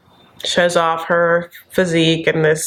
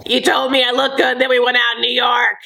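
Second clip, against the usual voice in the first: higher, sing-out put-on voice; Lisa impression; 4 semitones higher than usual. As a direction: call it out in a mock voice. Mimics Lisa backing Tom up.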